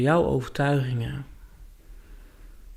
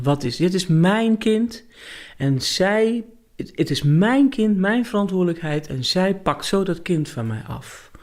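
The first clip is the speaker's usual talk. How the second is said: indignant mother; 5 semitones higher than usual. Retold or imitated. Mother pleads her case, quarrel.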